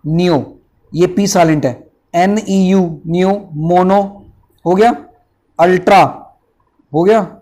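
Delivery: नियो, मोनो, अल्ट्रा said as separate parts, each with a pause; split into syllables. Shown as a demonstration. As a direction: spell it out piece by piece, slowly on सिलिको and वोल्केनो. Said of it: "जैसे पहले देखो". (शब्द को टुकड़ों में तोड़कर बोलना)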